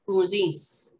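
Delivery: Cousins said with a nasal vowel, drawn from the nose; nasalized Cree word. Shown as a demonstration. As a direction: push Cousins out through the nose. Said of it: "This is one of those nasalized words".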